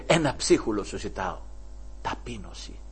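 humble, soft. Acted. Preacher voicing the mother's humble request, soft.

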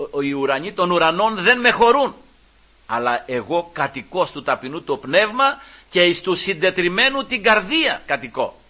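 preacher's solemn, ringing quotation; scripture declamation. Acted. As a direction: proclaim the verse with lifted voice.

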